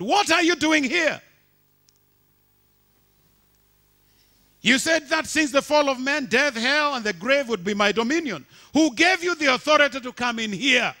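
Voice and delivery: high, loud indignant demand; Satan's puzzled challenge. Acted. Preacher voicing Satan demanding answers from God, loud and high. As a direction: voice Satan confronting God in hell. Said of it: "Satan was puzzled and asked God".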